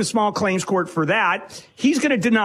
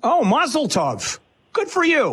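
drawn-out cheer, then a high congratulation; 6 semitones higher, slower than usual. Real, not acted. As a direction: exclaim it, high-pitched on the follow-up. Congratulates caller on long-lost daughter.

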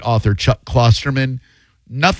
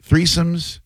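slow segment title; 2 semitones lower, much slower than usual. Acted. Announcing the next segment.

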